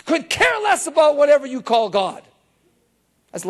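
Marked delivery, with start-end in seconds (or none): 0.0-1.6 higher, rising to shouts, listing her troubles; imitating an overwhelmed woman venting; upset woman. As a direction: voice her building frustration. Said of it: "She goes".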